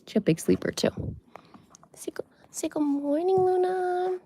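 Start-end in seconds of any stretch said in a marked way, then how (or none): 1.9-4.2 whisper to bunny. Real, not acted. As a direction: whisper gently so she wakes.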